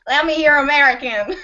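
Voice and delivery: American cowboy impression of the host; quick, laughing take on an American accent; mock American accent. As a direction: mimic an American cowboy, amused. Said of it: "when you do my voice, I sound like a cowboy".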